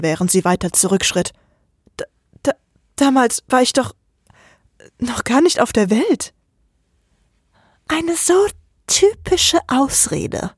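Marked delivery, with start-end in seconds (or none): 2.0-6.3 stuttering. Acted. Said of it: "Von ihr kam nur Stottern". 7.9-10.5 high, slow scornful drawl; Oleg sneering. Acted. Oleg jeers inside the narrator's head, slow and scornful. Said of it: "höhnte Oleg".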